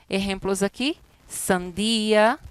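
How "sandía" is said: "sandia" split as san-DI-a; careful three-syllable "sandia"; vowels in hiatus. Shown as a demonstration. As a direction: stress the i of "sandia" apart from the a. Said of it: "separamos um hiato".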